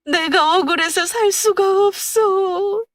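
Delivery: high, slow crying wail to her late husband; wailing lament. A narrator's reading. Widow wailing at her husband's urn, high and slow. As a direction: wail out the grief, voice pitched high. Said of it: "목을 놓아 울었습니다".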